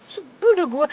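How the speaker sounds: sulky, teary complaint; whiny crying. Acted. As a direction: whimper it out in a huff. Sulking after an argument.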